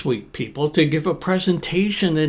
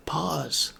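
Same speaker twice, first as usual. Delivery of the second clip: soft pause word; 7 dB quieter than usual. Shown as a demonstration.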